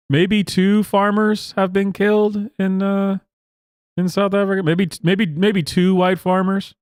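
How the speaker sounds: sarcastic mock of the news anchors.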